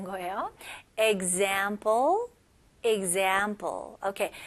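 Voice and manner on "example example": Example stretched slowly with stress on -zam-. Shown as a demonstration. Teacher repeats Example slowly, stressing the za syllable. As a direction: lean on the middle of Example. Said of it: "강세가 어디에 들어갈까요?".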